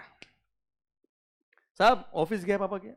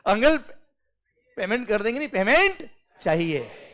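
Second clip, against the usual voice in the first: calling the uncle, raised and insistent; loud demand; 5 semitones higher, 6 dB louder than usual. Retold or imitated. Employee loudly demands payment from newspaper-reading uncle, insistent. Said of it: "वो अखबार नीचे करके बोलता uncle".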